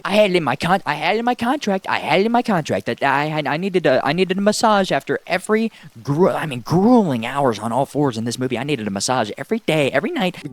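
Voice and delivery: lightly voiced whiny actress. A hint of the actress complaining to silent Martin about her contract. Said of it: "she's like".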